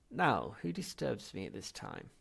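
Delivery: lightly voiced old ancestor, peevish; a querulous old spirit, gently done; ancient ghost. Great-grandfather ghost to disturbed visitors, mildly irritated.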